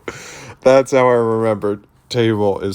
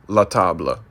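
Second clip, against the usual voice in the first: French word. Retold or imitated. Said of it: "And then French goes".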